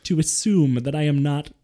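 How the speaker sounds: mock indignant rant. Mock outrage rant at mom.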